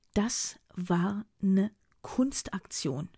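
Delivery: slow, thick-tongued declaiming; heavy tongue. Acted. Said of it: "deklamiert Philomena mit schwerer Zunge".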